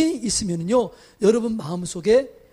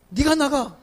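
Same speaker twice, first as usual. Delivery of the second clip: louder toward the end, a mock homeowner's indignant retort; hammed-up huff of someone refusing to leave their own house; 4 semitones higher, 3 dB louder than usual. Homeowner refusing to leave, mock indignant retort. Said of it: "이러잖아요".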